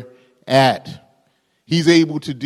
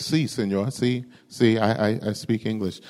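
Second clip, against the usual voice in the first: softer, quiet reply; timid translator; 3 semitones lower, 6 dB quieter than usual. Acted. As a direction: answer shyly from the crowd. Translator answers meekly.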